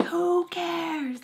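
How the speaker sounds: high, mock-scream retort. Mom screaming at crying daughter, exasperated yell. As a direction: imitate a mom shrieking in exasperation. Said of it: "Like, screaming at me".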